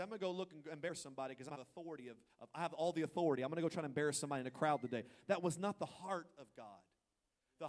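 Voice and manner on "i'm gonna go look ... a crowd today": rattled off fast in mock bravado; imitating a boastful plan. Mocking a power-hungry plan, said fast. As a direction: hurry through it like a smug bully. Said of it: "He didn't wake up that day and say".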